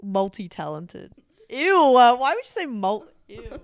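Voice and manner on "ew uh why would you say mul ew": grossed out. Real, not acted. Co-host disgusted by a pronunciation, grossed out. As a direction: recoil loudly at a cringey word.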